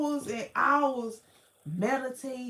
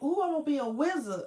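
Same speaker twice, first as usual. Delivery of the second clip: giddy excitement; 3 semitones higher, much faster than usual. Retold or imitated. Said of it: "I was like".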